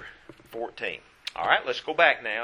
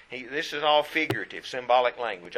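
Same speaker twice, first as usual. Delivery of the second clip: ordinary talk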